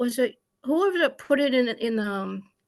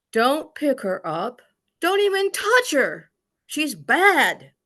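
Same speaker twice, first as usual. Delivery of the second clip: a mother's yell, louder, slowing on the first words; retold yell; 2 semitones higher, 5 dB louder, slower than usual. Retold mother yelling at the father about the child. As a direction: bark it out as the angry mother. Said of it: "she yells at my father".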